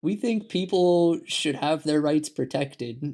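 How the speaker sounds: voicing an earnest appeal, slowly; mock earnest plea. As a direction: draw it out like a reasonable suggestion. Voicing one side of argument.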